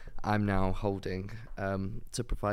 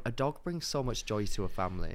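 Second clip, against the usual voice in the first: blocked nose; 4 dB quieter than usual. Real, not acted. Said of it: "I need to blow my nose".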